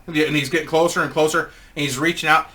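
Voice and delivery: normal talking voice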